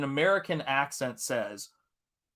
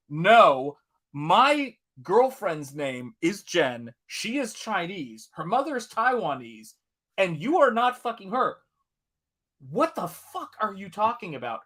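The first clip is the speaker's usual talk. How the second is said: mock indignant correction; 4 semitones higher than usual. Teen corrects fake mother on the phone, indignant. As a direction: spell it out indignantly, word by word. Retold angry phone argument.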